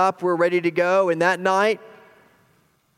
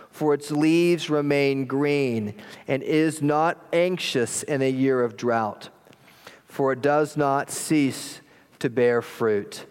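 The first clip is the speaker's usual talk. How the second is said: slow, measured scripture reading; 3 semitones lower, much slower than usual. Real, not acted. Pastor reads God's word to the congregation, slow solemn reading. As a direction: read it slowly and solemnly, each phrase set apart.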